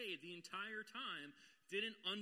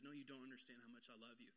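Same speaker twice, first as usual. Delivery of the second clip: gentle God voice; 6 semitones lower, 9 dB quieter, faster than usual. Acted. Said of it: "He says".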